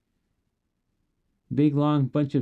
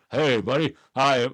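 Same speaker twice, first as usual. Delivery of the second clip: lightly put-on husky dog owner; a hint of playful husky character. Pretend owner asking after a lost dog, lightly husky voice. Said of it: "Do I sound like a husky dog".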